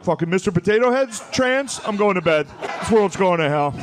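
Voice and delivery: fed-up Fox News dad storming off; angry old dad. Retold or imitated. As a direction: huff off to bed in disgust. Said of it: "he'll just stand up and be like".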